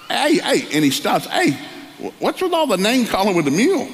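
high calls to someone walking away; calling after him. Retold or imitated. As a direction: stop him with a shout. Coach calling after the farmer.

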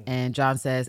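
ordinary delivery

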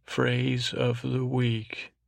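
slow, drawn-out announcer flourish. Shown as a demonstration. Host hyping the phrase of the week, slow and grand. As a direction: stretch each word out like a big reveal. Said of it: "but I said it in a way".

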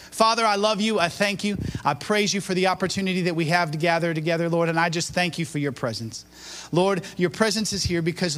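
earnest, flowing public prayer; continuous, even prayer cadence; spoken prayer. Real, not acted. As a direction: pray aloud for the congregation. Leads the congregation in prayer.

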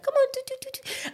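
very high sing-song coo to a cat; cat-calling coo. Retold or imitated. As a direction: coax the cat in a tiny high voice. Calling stray cat sweetly.

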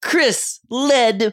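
"Chris Ledbetter" slow, high, stressed on "Chris"; this means pepper cadence. Shown as a demonstration. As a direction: drawl "Chris Ledbetter" like the catchphrase. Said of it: "read his name, to the same cadence as".

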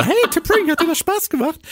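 mock deep Spock voice; imitating a dubbed deep voice. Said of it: "tiefe Stimme von Ethan Peck".

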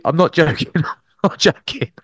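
high, laughing "not joking" in an imitated mate's voice; mock excited insistence. Imitating his hyper rugby mate, high and laughing.

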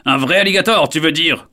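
high, loud squeal; squeaking. Acted. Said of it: "couine son ami".

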